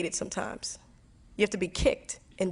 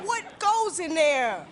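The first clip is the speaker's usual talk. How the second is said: baffled question; 9 semitones higher, slower than usual. Retold or imitated. Baffled at fiance's baggage.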